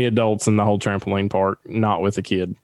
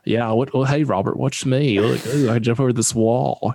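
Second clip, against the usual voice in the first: mocking show-off. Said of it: "Dalton's over here, like, doing cartwheels".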